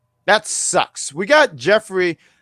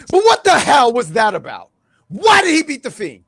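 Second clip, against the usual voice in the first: booming higher wrestler shout; wrestling promo voice; 7 semitones higher than usual. Pretend. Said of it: "wrestling promo voice".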